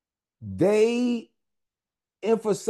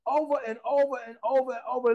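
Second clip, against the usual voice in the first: rapid repetition; 5 semitones higher, much faster than usual. Acted. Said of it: "fast repetition".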